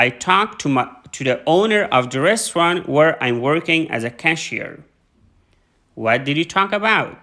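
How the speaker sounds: careful read-aloud of questions and answers, lifted pitch at line starts; model dialogue reading. Shown as a demonstration. Teacher reading a practice phone dialogue to students, careful model reading. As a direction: read it out clearly for learners, phrase by phrase.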